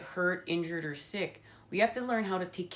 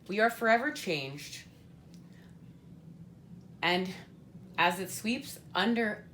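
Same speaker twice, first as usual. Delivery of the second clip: emotional; 3 semitones higher than usual. Real, not acted. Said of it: "gonna get emotional".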